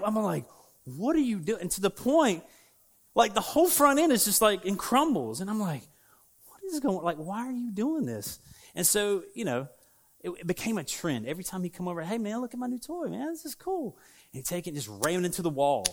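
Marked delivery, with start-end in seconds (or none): 0.8-1.6 higher-pitched, mock-exasperated protest; imitating a baffled kid; retold dismay. Child protests at wrecked toy. 6.5-8.4 high-pitched start, mock-exasperated; imitating a kid's dismay; retold bewilderment. Child protests at wrecked toy. 12.0-14.0 higher-pitched, eager show-off; imitating an excited boy; retold kid excitement. Child shows off new toy.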